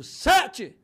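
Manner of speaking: high, loud comeback; re-enacted auction shout; shouted bid. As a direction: outbid him with a yell. Retells his shouted counter-bid.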